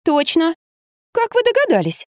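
mock amazement; playing dumb. A narrator's reading. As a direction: play the silly woman. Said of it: "прикинулась кретинкой".

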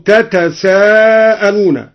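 تتساءلون said slowly with both tā' sounds; original form. Shown as a demonstration. Teacher giving the base form تتساءلون slowly. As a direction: spell out تتساءلون, double t then s. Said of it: "وأصله".

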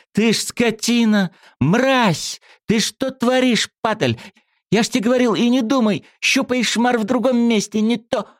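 a thug roaring at a rival; furious shout. A narrator's reading. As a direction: scream abuse at him. Yashka blue with rage.

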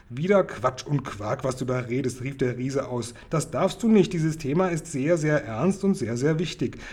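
put-on the giant lecturing a little girl, half-cross; lightly voiced giant. Giant correcting Sophiechen, mildly scolding.

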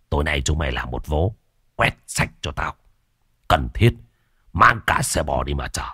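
a lazy boss growling commands from his bed; gruff gang boss. Acted. Boss Trung Điên orders his gang to raid the village, low gruff voice.

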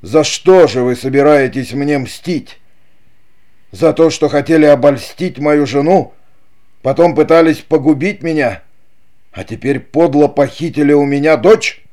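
high, loud indignant questions; angry accusation. A narrator's reading. Don Pedro accuses his brother, angry and loud. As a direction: hurl each accusation at him.

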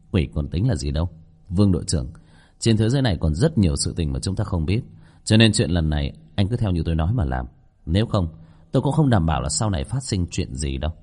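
lightly voiced, unhurried explainer; composed shop owner. Owner explaining his ghost waitress to captain, composed voice.

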